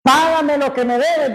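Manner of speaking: grab him by the throat and demand it; angry demand. Retold or imitated. Servant choking his fellow servant, angry shouted demand. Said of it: "Imagínese".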